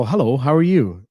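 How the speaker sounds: polite greeting, played up as too formal. Shown as a demonstration. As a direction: put on a proper, un-laid-back hello. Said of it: "there's no, ... It's so laid back".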